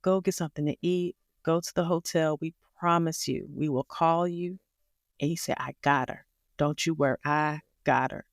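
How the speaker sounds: a touch of calm, soothing nurse; gentle reassuring nurse. Retold or imitated. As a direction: reassure tired parents kindly. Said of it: "he said it so peace-, nicely".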